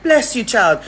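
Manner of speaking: high, playful blessing; mock blessing. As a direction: play a grateful mother blessing her child. Acting out her grateful reply.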